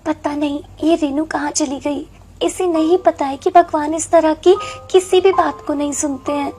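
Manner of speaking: understated resigned sorrow; wistful lament. Acted. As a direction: murmur sadly to yourself about little sister. Sister laments alone, God won't listen.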